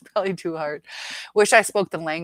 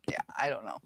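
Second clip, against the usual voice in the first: whispered unease; 5 semitones lower, 8 dB quieter, faster than usual. Real, not acted. Grossed out by Chinese dishes.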